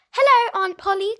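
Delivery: high, loud excited greeting; cried out. A narrator's reading. Boy calling happily to his aunt on the steps, excited. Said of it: "cried Philip".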